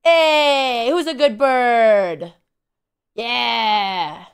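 slow, drawn-out bro praise; bro talk. Pretend. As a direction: stretch it out like a bro greeting a bird. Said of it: "he likes bro talk better".

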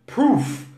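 Proof said slowly, the final F blown out with air. Shown as a demonstration. Teacher demonstrates to the live class: Proof with the F blown out. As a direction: blow air through the F at the end of Proof. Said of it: "o F é som de F".

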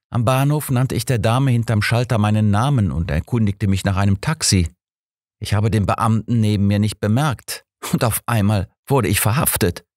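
mildly outraged businessman; indignant. Acted. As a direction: protest the injustice, mildly worked up. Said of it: "empörte sich Mister Kent".

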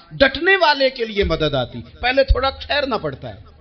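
rising, fervent sermon voice; preaching. Acted. Preacher urging listeners to stand firm, fervently. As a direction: preach it out to the congregation.

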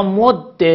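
مد with a doubled dal ending in short e; assimilated, kasra ending. Shown as a demonstration. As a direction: hold the dal of مد, then release -de. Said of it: "در هر سه صورت ادغام". (مد با دال مشدد و کسره)

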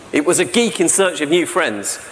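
usual speaking voice

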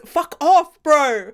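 heated, rising dismissal; frustrated. Real, not acted. Viewer telling character off, frustrated. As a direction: tell them off, really fed up. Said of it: "I'm frustrated".

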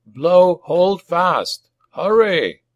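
high, loud battlefield order; urgent command. A narrator's reading. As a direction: call it urgently to the trumpeter.

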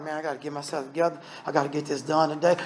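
quick soft imitation of someone in the car; mock self-talk mutter. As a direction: rattle it off under your breath like talking to yourself. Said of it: "You're like".

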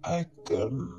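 slow, sinister creature voice; slow vampire voice. Acted. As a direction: draw it out like an old vampire. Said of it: "continued the vampire".

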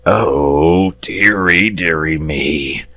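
a weary moan of dismay; mild dragon moan. Acted. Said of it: "moaned the dragon".

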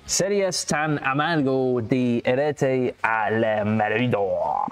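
slow hammed-up Spanish accent. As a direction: put on a Spanish accent, slowly. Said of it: "get into my Spanish, uh, accent".

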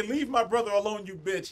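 quick, flat, dropping low to a mutter; deadpan the line back as if it's useless; mocking the weak threat in a flat voice; flat mocking reread. Shown as a demonstration. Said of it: "Just say".

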